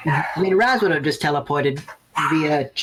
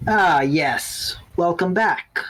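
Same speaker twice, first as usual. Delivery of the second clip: deep voice; much slower than usual. Acted. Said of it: "a deep voice says".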